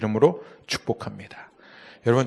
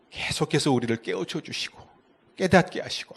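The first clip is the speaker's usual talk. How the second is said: normal talking voice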